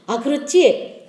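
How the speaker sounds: slow, drawn-out acknowledgement; imitated dawning agreement, stretched out; conceding. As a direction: concede slowly to the child. Mother conceding to her child.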